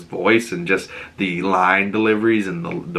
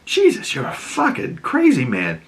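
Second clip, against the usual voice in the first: higher, fast and scornful; mocking disgust; 8 semitones higher than usual. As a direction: Sophia sneering at Oz. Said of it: "Sophia's standing there like".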